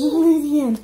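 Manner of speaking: put-on reading to a toddler. Praising toddler's animal sounds.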